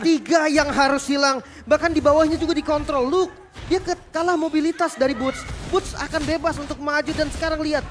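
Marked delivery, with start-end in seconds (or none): 0.0-5.9 excited. Real, not acted. Caster hypes a triple kill.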